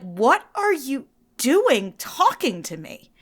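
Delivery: slow, suspicious challenge; a hint of a suspicious local brushing off a friendly stranger; mock suspicion. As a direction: lightly play a wary New Jerseyan. Voicing suspicious New Jerseyans.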